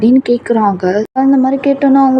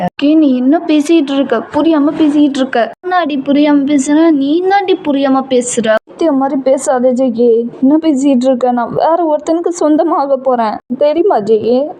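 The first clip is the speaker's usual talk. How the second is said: tearful pleading; 3 semitones higher than usual. Acted. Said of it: "அழுதுட்டே சொல்றீங்க".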